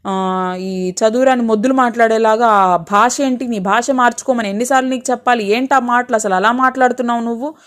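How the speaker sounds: mild, quick-fire scolding; lightly acted telling-off with exasperated questions; scolding mother-in-law. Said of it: "అని అరిచింది". (కోడలిని కొంచెం కోపంగా మందలిస్తూ)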